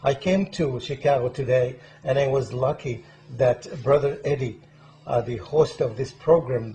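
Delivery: loud, emphatic welcome to viewers; show-opening host introduction. Real, not acted. Host welcoming viewers to the program, loud presenter delivery. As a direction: project a proud introduction of the guest.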